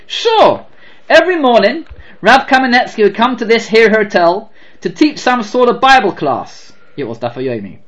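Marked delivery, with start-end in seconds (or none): 0.1-6.7 higher, louder fond southern operator; lightly done southern accent, eager to tell. Retold or imitated. Operator telling the rabbi's grandson, fond southern accent. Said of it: "I do not have a good southern black accent".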